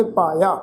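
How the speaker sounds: low, careful model reading of ਪਾਇਆ; demonstrated pronunciation. Shown as a demonstration. Teacher shows congregation how to read ਪਾਇਆ, careful pronunciation. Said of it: "ਪਾਠ ਉਚਾਰਨ ਕਰਾਂਗੇ".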